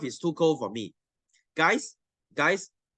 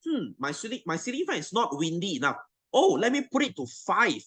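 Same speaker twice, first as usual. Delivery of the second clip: mock clueless owner; 3 semitones higher than usual. Teacher imitating a lazy fan owner, lightly mocking. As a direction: play the lazy owner, musing. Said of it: "what do you say".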